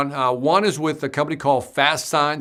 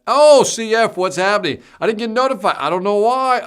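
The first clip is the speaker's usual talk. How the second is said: surprised greeting; 7 semitones higher, 6 dB louder than usual. Real, not acted. Surprised to see a viewer arrive.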